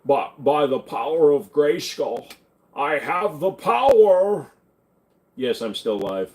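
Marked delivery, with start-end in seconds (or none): 0.0-4.5 a slowed, louder Jimmy Stewart take on He-Man. Retold or imitated. Streamer redoing the He-Man line as Jimmy Stewart, slow. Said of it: "I'm gonna do it as Jimmy Stewart".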